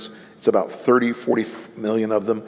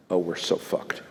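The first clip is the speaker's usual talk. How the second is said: rueful half-laugh, breathy and soft; laughing despair; 5 semitones lower, 7 dB quieter than usual. Retold or imitated. Host hearing the voter, soft rueful laugh. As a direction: laugh it off in quiet dread. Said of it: "And I was like".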